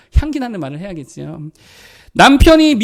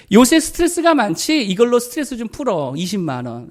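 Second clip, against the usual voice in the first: caring husband; 3 semitones higher than usual. Shown as a demonstration. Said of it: "이렇게 말해야 되는 거예요".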